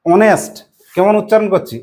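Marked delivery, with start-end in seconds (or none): 0.1-0.5 অনেস্ট said starting on অ, no h sound; silent h. Shown as a demonstration. Teacher models অনেস্ট without the h for pupils. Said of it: "আমরা বলছি".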